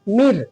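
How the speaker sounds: "मिर" with a light, thin r. Shown as a demonstration. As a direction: keep the r of "मिर" fine, not heavy. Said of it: "एकदम बारीक".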